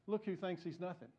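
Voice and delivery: quiet, laughing aside; nudging aside. Retold or imitated. Billy nudging the pastor, a quiet laughing aside. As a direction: murmur it with a grin, sharing the joke. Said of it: "Billy nudges me and says".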